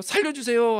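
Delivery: high-pitched mock drowning cry; urgent cry for help. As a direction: call for help as if drowning, acted. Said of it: "우리도 다급하면 한 번만 말하지 않습니다". (물에 빠진 듯 높은 소리로 살려달라는 시늉)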